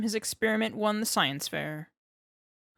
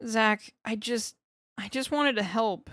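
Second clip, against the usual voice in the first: pleading; 3 semitones higher than usual. Acted. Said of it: "he pleads".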